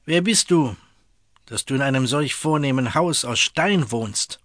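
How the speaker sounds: scene: jealous governor on horseback questions the farmer, imperious. Acted. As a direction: lord it over the peasant. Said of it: "fragte mit herrischer Stimme".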